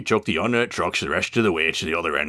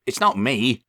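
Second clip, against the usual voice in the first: chuckling; 7 semitones higher than usual. Acted. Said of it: "chuckled Thomas".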